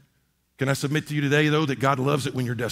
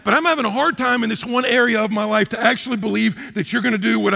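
desperate prayer; 5 semitones higher, 3 dB louder than usual. Retold or imitated. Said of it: "desperate prayer voiced".

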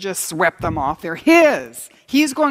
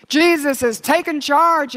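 higher, slow, ringing proclamation; triumphant proclamation; 7 semitones higher, 4 dB louder, slower than usual. Real, not acted. Preacher to congregation, triumphant slow proclamation. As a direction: declare it like a victory cry.

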